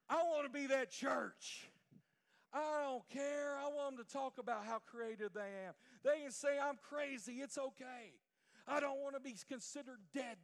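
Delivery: loud, insistent pulpit delivery; impassioned preaching. Real, not acted. Preacher wanting to be that church, loud fervent preaching. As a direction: hammer it home to the congregation.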